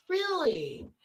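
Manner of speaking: high, drawn-out retold surprise; astonished. Friend hearing they share the Knapper name, astonished. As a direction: imitate a friend's amazed reaction.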